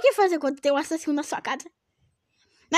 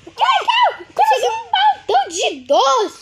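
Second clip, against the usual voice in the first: gleeful cry; 11 semitones higher, slower than usual. Acted. Triumphant kid voice.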